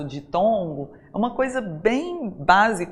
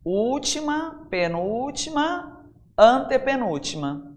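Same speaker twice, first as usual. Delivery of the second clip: slow, higher-pitched count, one word at a time; 4 semitones higher, slower than usual. Shown as a demonstration. Teacher counts syllable positions for the class, slow counting. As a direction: count them off slowly, lifting each word. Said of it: "Eu conto".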